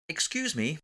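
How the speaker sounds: put-on polite, apologetic English accent; best English accent. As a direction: excuse yourself in a posh-attempt English accent. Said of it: "apologising in my best English accent".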